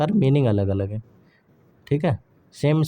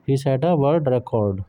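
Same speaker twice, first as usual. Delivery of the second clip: slow, careful repeat of the sentence; slow dictation; much slower than usual. Shown as a demonstration. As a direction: repeat it slowly for the class. (धीमे, साफ़ दोहराइए)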